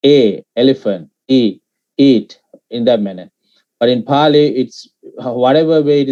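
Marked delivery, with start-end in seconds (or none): 0.1-1.1 "A" said as its own vowel, then "elephant" as the example. Shown as a demonstration. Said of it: "can be pronounced as A". 1.3-2.4 "E" as ee, then "eat" with the same vowel; long E sound. Shown as a demonstration. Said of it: "E can be pronounced as E".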